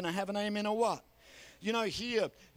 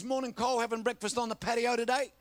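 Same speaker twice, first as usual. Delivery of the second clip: higher-pitched, chirpy casual greeting; breezy teenage boy; 4 semitones higher than usual. Retold or imitated. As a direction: play the oblivious kid hailing a neighbour. Teenage boy strolls up whistling, greets him.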